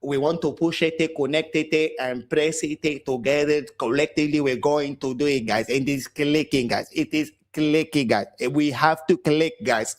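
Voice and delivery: put-on lightly accented Spanish manager parody; mock the manager's press conference, repeating guys; mock Arteta press talk. Fan mimicking Arteta's press conference, lightly accented mock. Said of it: "Shut the fuck up".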